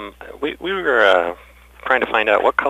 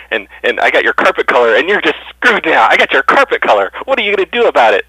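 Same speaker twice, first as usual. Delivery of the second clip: loud, higher mocking gloat; gloating taunt; 5 semitones higher, 7 dB louder than usual. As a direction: rub it in, louder each line. Prank caller gloats at clerk.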